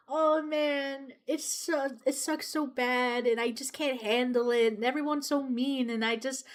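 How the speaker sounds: mildly high mock whine; imitated crying complaint. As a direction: lightly act out a waitress moaning tearfully. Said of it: "And she kept crying".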